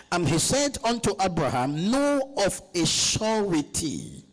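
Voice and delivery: slow, drawn-out scripture declamation; scripture reading. Acted. Preacher reads scripture to the congregation, slow scripture reading. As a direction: read the verse out slowly and deliberately.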